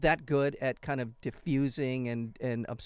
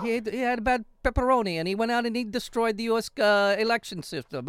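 a light, higher Russian mobster voice; Russian accent; 5 semitones higher than usual. Retold or imitated. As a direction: still voicing Putin with a Russian accent. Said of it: "that's your Russian accent?".

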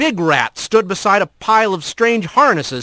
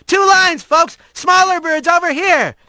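shouting fire captain; 11 semitones higher than usual. Acted. Big rat directing birds at the fire, commanding shout. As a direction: bark orders over the noise. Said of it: "The big rat shouted".

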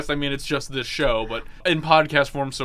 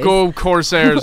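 mock cheer; 3 semitones higher, 5 dB louder, much slower than usual. School cheer.

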